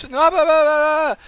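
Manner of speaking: high, loud ranting blah blah; frantic high shouted gibberish rant; screaming blah blah. Pretend. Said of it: "screaming and yelling".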